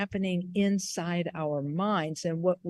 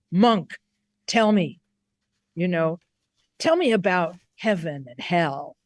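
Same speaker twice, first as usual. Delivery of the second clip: demanding samurai. Retold or imitated. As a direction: call out to the monk like a warrior gripping his sword. Samurai demands answer, hand on sword.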